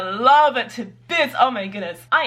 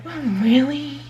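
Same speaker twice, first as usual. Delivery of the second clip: higher, skeptical drawn-out really; sarcastic; 5 semitones higher, slower than usual. Acted. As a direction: doubt them with sarcasm. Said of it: "sarcastic characters".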